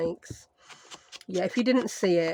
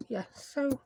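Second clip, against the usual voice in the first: whisper; 5 semitones higher, 6 dB quieter than usual. Real, not acted. Quiet aside while rummaging.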